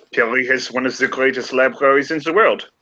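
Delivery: put-on French accent slipping into German; a proud French scholar, accent drifting. Remy boasting of Paris libraries, accent drifting German. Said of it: "I keep going German".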